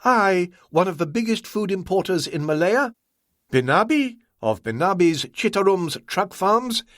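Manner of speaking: mock the very question; Ah Wong, indignant scorn.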